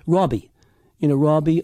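"Robbie" with a rounded "aw" vowel. Shown as a demonstration. Coach shows the vowels he found for Keaton, rounded "aw" in "Robbie". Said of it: "kind of a rounded aw sound".

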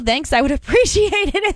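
laughing. Retold or imitated. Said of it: "very nicely".

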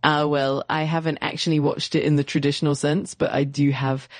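hammy fake French accent in English; bad French accent. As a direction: lay the French accent on thick and badly. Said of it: "using a really bad fake French accent".

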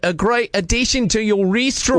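put-on Australian accent. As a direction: fake Aussie prank caller. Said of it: "using my Australian accent".

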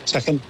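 second with its k sound fricated, Scouse style. Shown as a demonstration. Showing the radio panel the Liverpool k in second. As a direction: soften the k in second to a breathy hiss. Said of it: "if a word ends in a k, it becomes more like a sh".

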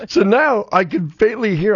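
talks through real laughter; laughing. Real, not acted. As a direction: laugh the words out. Laughing while recounting the mishap.

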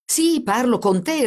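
smiling, drawn-out assurance. A narrator's reading. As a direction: confirm it with a smile in the voice. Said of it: "ripeté il carabiniere sorridendo".

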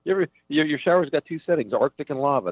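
high-pitched mock comic patter; old crappy stand-up act. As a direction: parody your own hacky observational bit. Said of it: "That was my old stuff".

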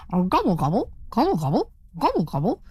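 rising, bird-like gobbling calls; turkey gobble. Acted.

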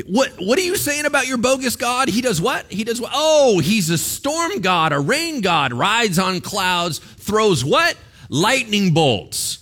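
high-pitched feigned disbelief; mock incredulous taunt. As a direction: taunt them, playing astonished at their claims. Acting Elijah taunting Baal's prophets.

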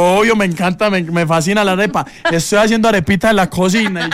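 imitating Diana.

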